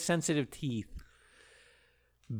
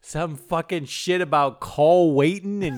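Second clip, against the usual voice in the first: drawled Bill; 3 semitones higher, 4 dB louder, slower than usual. Retold or imitated. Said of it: "Bill answering what's going on".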